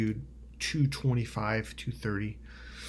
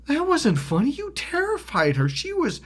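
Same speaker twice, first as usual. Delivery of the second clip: high, loud, upset reproach; indignant scolding; 4 dB louder than usual. Retold or imitated. Confronting his friend for terrifying her, indignant. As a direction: scold him in a high, heated voice.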